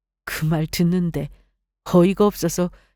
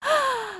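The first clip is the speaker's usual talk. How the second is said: short, high, mocking laugh; daughter-in-law scoffing at her mother-in-law; scornful laugh; 5 dB quieter than usual. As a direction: laugh at how little she knows. Scoffs at mother-in-law's claim.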